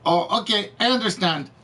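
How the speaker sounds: badly faked Indian accent; attempted Indian accent. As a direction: imitate a recruiter with a faint Indian accent. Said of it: "I can't do the Indian accent".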